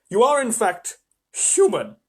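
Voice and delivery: a hint of an eager fawn; fawn character. Fawn's voice.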